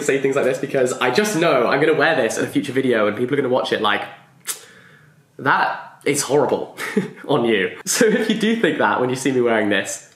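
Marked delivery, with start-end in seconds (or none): 5.4-7.8 slow, drawn-out mock judgement; mock disdain. Imagined viewer judging her new t-shirt, mock disdain. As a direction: imitate a disapproving viewer, slowly, with a laugh.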